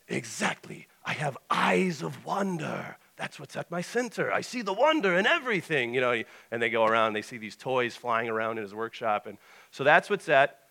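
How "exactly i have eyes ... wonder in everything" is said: put-on awestruck Russian accent climbing high; North. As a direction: proclaim it with wonder as a Russian Santa. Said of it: "he's like".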